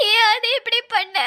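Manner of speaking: tearful accusing question; crying. Acted. Bride crying at Aadhi. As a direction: ask it weeping.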